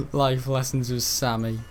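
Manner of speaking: slow, grand mock title of "Life lessons with Sammy"; drawn-out announcer for a fake show.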